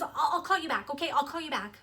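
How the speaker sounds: mildly mimicked urgency, repeating herself; panicked. Mom trying to end a broken call, mildly panicked. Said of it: "she sounds really, really panicked".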